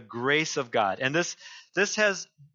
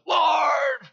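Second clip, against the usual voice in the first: Elijah repeating his complaint; 5 semitones higher than usual. Acted. Elijah answering God again, pleading, fading. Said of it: "he repeats himself".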